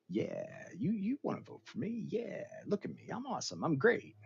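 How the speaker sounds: high and soft, trailing into a whisper; lightly voiced vain candidate; smarmy whisper. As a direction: purr it like a smug politician. Candidate voice, now softer.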